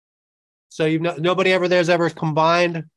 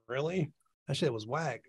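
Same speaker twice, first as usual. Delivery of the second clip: inner voice; 13 dB quieter than usual. Retold or imitated. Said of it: "In your head, you're like".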